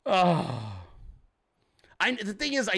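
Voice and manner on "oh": weary sigh. Acted. Worn out after squealed rant.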